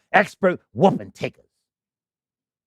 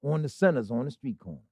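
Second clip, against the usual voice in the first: said real slow. Shown as a demonstration. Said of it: "Let me say that real slow".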